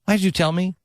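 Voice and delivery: high whiny protest, lightly hammed; mock whining complaint. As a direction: complain like a cheated kid. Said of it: "and you're like".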